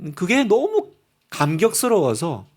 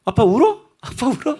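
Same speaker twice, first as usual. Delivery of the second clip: mimicking child's question; 5 semitones higher than usual. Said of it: "아이들이요".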